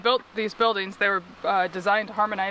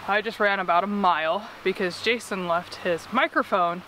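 out of breath. Real, not acted. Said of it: "I'm completely out of breath".

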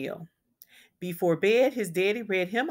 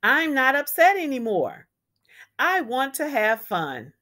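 put-on loud, higher cheerful child voice; happy; 5 semitones higher, 5 dB louder than usual. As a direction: bounce with joy. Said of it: "He was happy".

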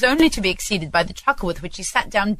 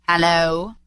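feigned growl. Acted. Scrooge feigns his accustomed voice at Bob, mildly growling. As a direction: put on a touch of the old grump. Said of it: "growled Scrooge in his accustomed voice".

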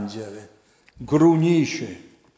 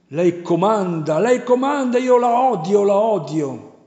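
high, loud whining devil; wailing demon; 6 semitones higher, 4 dB louder than usual. A narrator's reading. Devil wailing that her silence torments him, high and loud. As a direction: whimper and shriek like a tormented demon. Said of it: "Il diavolo dice mentre piange".

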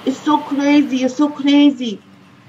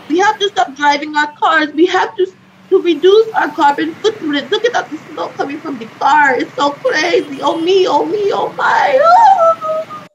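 crying; 2 semitones higher than usual. Acted. Acted despair over car pollution.

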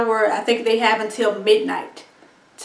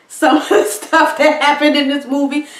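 laughing; 4 semitones higher, 4 dB louder than usual. Real, not acted. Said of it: "I'm laughing now".

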